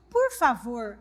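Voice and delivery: soft, meek please; timid plea. Shown as a demonstration. Preacher showing how not to speak to the devil, meek and soft. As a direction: beg weakly as if afraid of the devil. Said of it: "falando desse jeito".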